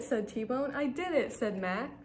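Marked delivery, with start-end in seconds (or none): 0.7-1.3 triumphant. Acted. Mac cheers triumphantly.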